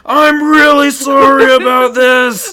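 high, loud and slow, laughing; polite barbarian apologizing in battle; apologetic barbarian. Pretend. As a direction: wail the apology while still swinging. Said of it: "hits him again".

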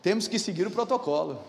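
mildly self-important pronouncement; measured, lightly pompous quote. Retold or imitated. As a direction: say it with a full mouth of authority, understated. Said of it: "enchi a boca pra falar".

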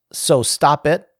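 firm quoted command; all-caps emphasis. Retold or imitated. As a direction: punch it like capital letters. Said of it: "in all caps".

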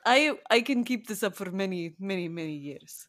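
put-on light Eastern European vampire accent. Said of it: "can I do the rest of this in Eastern European accent".

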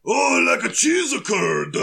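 slow cartoon voice in mock Fargo; Blotto. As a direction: drawl it as a silly cartoon cousin. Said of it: "Blotto goes".

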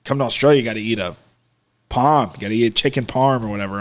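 quick, lightly put-on Aussie accent; Australian accent. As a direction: imitate an Australian local recommending food. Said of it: "like, in Australia".

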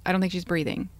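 level, unbothered report; husband calmly telling the 911 operator; flat, even keel. Retold or imitated. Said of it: "he's very even keel".

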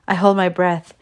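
plain reading voice

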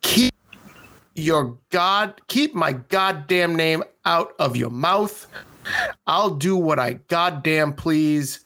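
mock all-caps yell, slowing down; shouting capitalized words. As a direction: read the letter like an angry shout. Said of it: "this is written in all caps".

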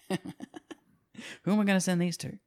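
high, laughing mock despair. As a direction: whine it through laughter.

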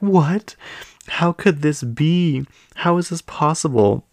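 high, loud, slow melodramatic wail of disbelief; mock crying dismay. Housewives crying on the beach as they hear the news, hammed-up disbelief. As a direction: ham up the tearful shock. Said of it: "basically start crying".

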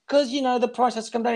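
mock wheedling buyer pushing on the price; pushy haggler. Retelling the haggle, customer nags for a discount.

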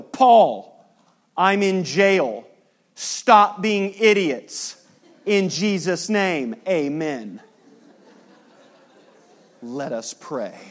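loud, slow, exasperated scolding; fed-up Paul. Retold or imitated. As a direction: slam each phrase like a fed-up prisoner. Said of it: "Paul could write this letter and go".

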